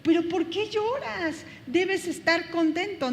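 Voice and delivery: you already know the answer, tease the tears away; knowing gentle rebuke. Retold or imitated. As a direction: someone who knows the good news asks why they still cry. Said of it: "cuando ya tú ya sabes la respuesta y le dices".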